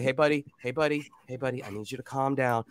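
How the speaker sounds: put-on softly calming a child; soothing dad. Dad to his freaking-out boy, softly soothing. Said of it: "he just starts freaking out".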